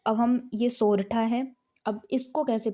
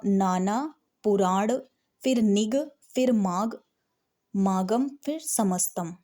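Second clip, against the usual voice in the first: word by word; slower than usual. Shown as a demonstration. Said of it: "ऐसे पढ़िएगा".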